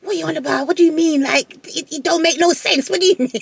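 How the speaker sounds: mimicking the son's disbelief on the phone; imitating him. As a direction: play his baffled disbelief. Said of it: "he was just like".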